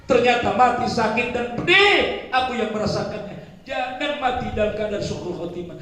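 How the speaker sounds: meratap tinggi dan keras; ratapan. Acted. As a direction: meratap memanggil anak cucu. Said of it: "Dia berkata … Dia nangis". (ratapan jenazah kepada anak cucu)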